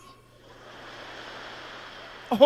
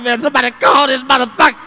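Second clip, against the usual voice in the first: mock crying plea; hammed-up crying kid; 8 dB louder than usual. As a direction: sob it out like a distressed kid. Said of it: "I started crying".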